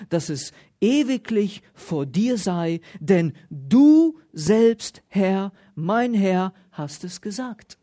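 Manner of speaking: solemn Bible reading, stressing du and Herr; emphatic preacher's scripture read. Acted. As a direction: read the prayer out to the congregation.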